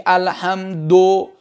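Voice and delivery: الحمدو with a clearly voiced final "o" vowel; nominative ending. Shown as a demonstration. Teacher quizzing students on case endings, nominative الحمدو. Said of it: "مرفوع خوندی".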